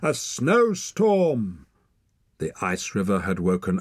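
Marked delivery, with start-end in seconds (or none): 0.0-1.7 slow, louder call over the wind; girl calling to Torak over the wind; raised voice over wind. Acted. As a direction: shout it above the storm. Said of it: "She had to raise her voice above the wind".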